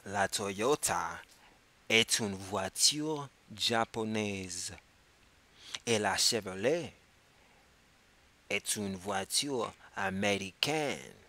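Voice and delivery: slow and clear, word by word; slow model for repeating. Shown as a demonstration. Teacher asks students to repeat, slow and clear. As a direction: lay it out slowly so they can echo. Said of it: "Répétez".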